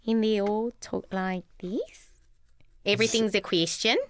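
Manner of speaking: Australian accent. Shown as a demonstration. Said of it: "My voice goes higher".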